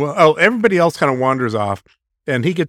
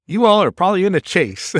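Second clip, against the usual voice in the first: put-on Alabama accent; 5 semitones higher than usual. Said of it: "the Alabama guy guesses".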